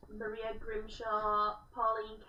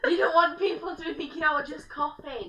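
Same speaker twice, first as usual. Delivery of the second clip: laughing; 6 semitones higher, 9 dB louder than usual. Real, not acted. Laughing defence of the cough.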